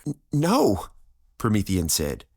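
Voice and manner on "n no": high, stammered confusion; confused. A narrator's reading. Promethean answers her barrage of questions, confused. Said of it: "confused by her barrage of questions".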